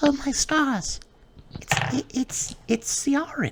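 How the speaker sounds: whispered fairy voice, very high-pitched. Voicing a fairy who sees a unicorn: whispering as a fairy. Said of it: "Joyleaf actually whispers".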